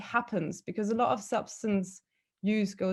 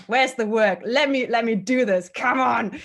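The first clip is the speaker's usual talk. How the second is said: excited; 2 semitones higher, 5 dB louder than usual. Retold or imitated. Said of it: "I was so excited".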